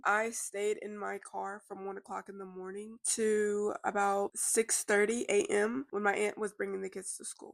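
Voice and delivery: stuffy, blocked-nose speech; congested. Real, not acted. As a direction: talk through a congested nose. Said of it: "I am so congested".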